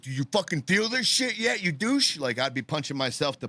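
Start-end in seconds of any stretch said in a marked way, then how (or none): 0.0-2.2 mock angry taunt.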